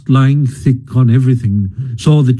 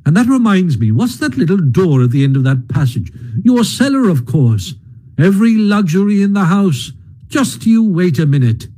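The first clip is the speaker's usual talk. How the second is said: higher, busy, cheerful Rat; lightly voiced brisk Rat; 5 semitones higher than usual. Rat bustles round Mole's house, higher and cheery. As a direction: bustle about with hearty cheer.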